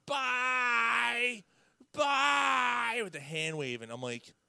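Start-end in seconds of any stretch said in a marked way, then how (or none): 0.1-3.0 high mock screech of bye bye; mocking shout. Bar fan screaming goodbye at him. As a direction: shriek it while waving goodbye. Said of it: "she starts screaming in my face".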